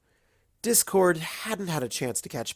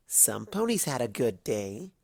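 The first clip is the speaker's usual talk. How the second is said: sly; 3 dB quieter than usual. Acted. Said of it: "Twilight said slyly".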